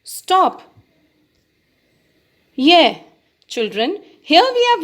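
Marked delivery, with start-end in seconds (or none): 0.0-0.6 sharp command. Shown as a demonstration. 2.5-3.0 excited yeah. Shown as a demonstration.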